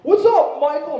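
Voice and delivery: put-on high, loud kid's holler; bratty kid greeting. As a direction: shout it up high like a cheeky little kid. Kid greets boyfriend loudly.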